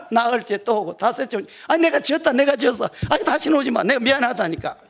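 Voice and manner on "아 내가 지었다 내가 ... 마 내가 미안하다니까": exasperated giving in. Retold or imitated. Gyeongsang man gives in, exasperated.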